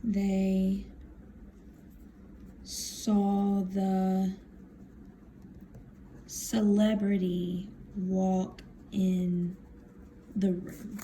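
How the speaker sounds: stretched words with very long pauses; slow dictation. Real, not acted. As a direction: speak at the pace of handwriting. Writing the sentence while saying it.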